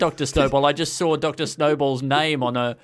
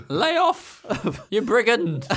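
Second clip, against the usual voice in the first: mock swashbuckler; 7 semitones higher, slower than usual. Mock old-fashioned insult, laughing.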